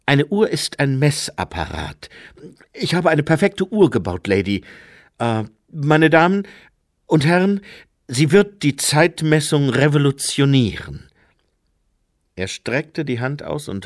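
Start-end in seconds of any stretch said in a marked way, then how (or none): 0.1-11.1 higher, louder proud inventor; rising excitement about his clock; Jeremy, excited. A narrator's reading. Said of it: "sagte Jeremy". (Jeremy, aufgeregt und stolz)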